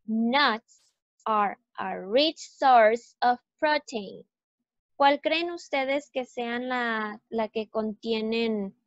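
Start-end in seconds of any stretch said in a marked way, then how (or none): 0.1-4.2 teacher repeats the track sentence, stressing key words; stress on nuts, rich, source, protein. Shown as a demonstration. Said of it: "La voy a pausar y repetir".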